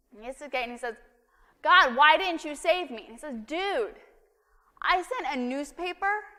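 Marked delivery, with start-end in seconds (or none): 1.6-3.0 mild indignant plea. Acted. Drowned man at gate. 3.5-6.3 high, loud, incredulous listing; God scolding the man at the gate, high and exasperated. Acted.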